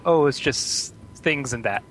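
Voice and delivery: Pittsburgh phrasing. Retold or imitated. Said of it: "never actually heard someone say 'and that'".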